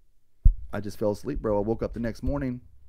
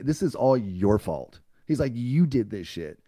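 louder, higher scolding retold; tough love; 4 semitones higher, 5 dB louder than usual. Retelling the caller scolding a self-pitying addict, loud and stern. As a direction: chew him out like a drill sergeant. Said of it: "giving me some tough ass love".

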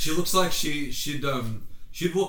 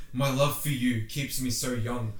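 mock romantic hero; slower than usual. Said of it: "And he's just like".

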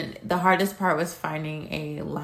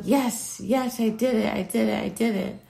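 excited cheer; 4 semitones higher than usual. Retold or imitated. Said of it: "I was like".

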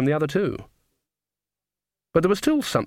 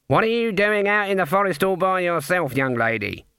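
raised, singsong grown-up voice; old witch to child; 6 semitones higher than usual. A narrator's reading. Granny bends down to the little girl, singsong. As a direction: question a small child in a high voice.

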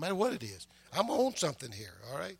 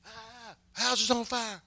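mock-alarmed, drawn-out high exclamation; excited cry; 6 semitones higher, slower than usual. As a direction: play a passerby crying out at a blaze. Acts out passerby seeing fire.

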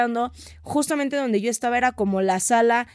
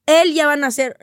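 urgent insistence; 3 semitones higher, 5 dB louder than usual. Retold or imitated.

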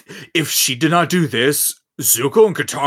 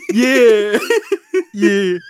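secondhand embarrassment; 9 semitones higher, 6 dB louder than usual. Real, not acted. Laughing at awkward scene.

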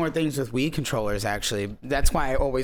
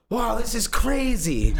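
imitating his own past self; 7 semitones higher, slower than usual. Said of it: "and I was like".

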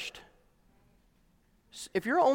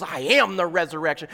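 lower, calm, intimate "I am the resurrection"; quiet Jesus; 4 semitones lower than usual. Acted. Jesus looks at Martha and tells her softly. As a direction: say it gently, looking her in the eyes. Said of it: "Jesus was looking at her and he goes".

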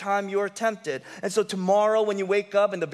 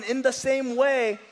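slow scripture reading; 3 semitones higher, slower than usual. Shown as a demonstration. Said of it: "this is why Paul says this".

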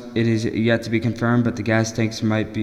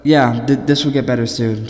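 stumbling over the first word; nervous, tripping on the start; nervous stutter; 4 dB louder than usual. Real, not acted. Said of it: "I'm just very nervous".

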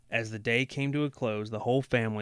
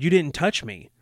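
higher, louder wifely reassurance; protesting; 5 semitones higher, 7 dB louder than usual. A narrator's reading. Wife assuring her dazed husband, mildly protesting. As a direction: protest quickly and emphatically. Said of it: "she protested".

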